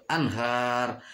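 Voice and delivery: "anhar" with a short clean n; "anhar", n cut before the h; no hum in "anhar"; clear idhar reading. Shown as a demonstration. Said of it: "harus jelas".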